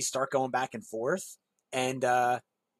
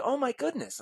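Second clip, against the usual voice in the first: starstruck gasp; 8 semitones higher, 4 dB quieter than usual. Retold or imitated. Meeting childhood idol.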